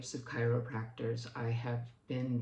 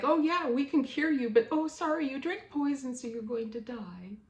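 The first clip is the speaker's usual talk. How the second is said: sarcastic mock doctor; 11 semitones higher, 3 dB louder than usual. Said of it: "it's like".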